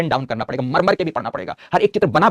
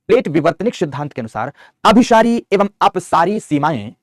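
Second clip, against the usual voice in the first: slow, loud dictation so students can write it down; every word spaced for note-taking; 3 semitones higher, 6 dB louder than usual. Shown as a demonstration. Teacher dictating to the class, slow and clear. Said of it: "पीछे लिखा चुका हूं".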